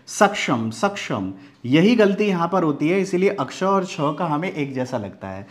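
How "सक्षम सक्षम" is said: सक्षम with क्ष heard as छ; common mispronunciation. Shown as a demonstration. Teacher asks learners to listen to it, common pronunciation. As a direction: demonstrate सक्षम with a plain s and छ-like middle. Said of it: "ये छ की आवाज़ दे रहा है".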